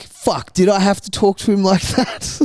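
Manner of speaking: high, singsong parody of the wife; mock her whiny tone; mocking sing-song. Mocking the disapproving wife in a whiny singsong.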